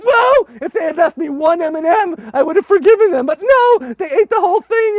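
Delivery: loud high mock outrage; hammed-up hurt over candy; mock grievance. Joking about eaten candy, high loud mock outrage. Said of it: "I was like".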